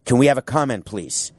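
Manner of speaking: reporter calling out to an owner; media voice. Acted. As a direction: shout questions like a reporter. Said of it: "my voice like this will be the media voice".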